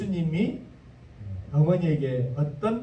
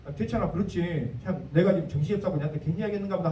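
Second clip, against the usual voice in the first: fast, offended muttering; a light touch of a miffed mother; mock sulking mother; faster than usual. Mary sulking after being rebuffed, in a fast offended mutter. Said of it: "하는 것이 아니고".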